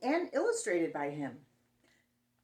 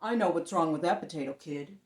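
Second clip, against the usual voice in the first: monster voice; 3 semitones lower, 6 dB louder than usual. Acted. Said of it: "I heard a voice".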